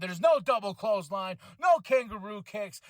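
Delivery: shouted promo lines; lightly shouted wrestler trash talk; mock promo shout. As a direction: yell it like a heel promo.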